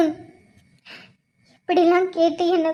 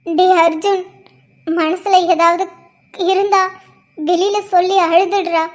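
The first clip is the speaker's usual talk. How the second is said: loud pleading; 4 dB louder than usual. Acted. Aunt urging him to cry out.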